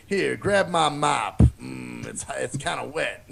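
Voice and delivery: very slow, fading creepy voice; slow creepy janitor. Retold or imitated. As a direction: drawl it slowly, trailing off. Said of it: "Vernon gonna show you".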